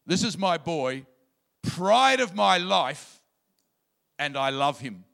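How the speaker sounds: slow, loud pride on pride of my life; a father beaming over his son; fond proud father. Retold or imitated. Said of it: "I love the Message paraphrase".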